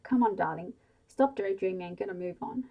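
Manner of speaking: mother nudging a daydreaming daughter; urging. Acted. Mother hurrying daughter out to visit dad, urging. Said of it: "her mother urged".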